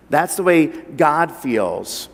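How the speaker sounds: usual speaking voice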